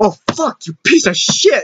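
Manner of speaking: mock furious swearing outburst. Retelling a father cursing at a repair: imitating dad cursing angrily. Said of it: "and then my dad".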